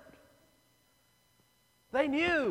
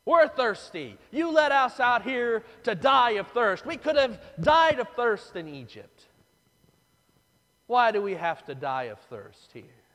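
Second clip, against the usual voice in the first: complaining; 4 dB louder than usual. Acted. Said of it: "they go all to pieces".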